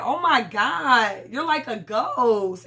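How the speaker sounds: very slow, stretched mock gush; drawn-out gushing. Candace greeting Juan, slow mock gushing. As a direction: drag every word out like a fake greeting. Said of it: "Candace said".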